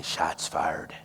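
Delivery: low, soft, calm radio call; mild southern drawl, very calm; calm sniper call. Retold or imitated. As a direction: report it coolly, no drama. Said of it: "called out ever so calmly".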